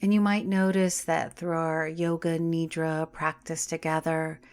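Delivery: calm, unhurried meditation voice with long pauses; guided meditation. Acted. Yoga teacher settling listeners into Yoga Nidra, guided meditation. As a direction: ease them into rest, phrase by phrase, drawing out key words.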